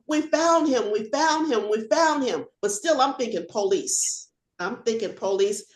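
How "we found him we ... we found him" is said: retold excited hollering. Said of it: "they're hollering and they're screaming".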